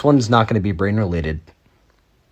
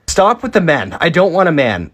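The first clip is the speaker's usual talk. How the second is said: exasperated protest; 6 semitones higher, 3 dB louder than usual. Real, not acted. Protesting filter.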